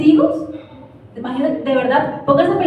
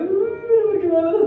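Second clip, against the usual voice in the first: put-on high voice of a hurt, sensitive child; Gabito; 7 semitones higher than usual. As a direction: imitate a child upset at being hushed. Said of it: "Es bien sensible". (niño sensible y dolido, voz aguda)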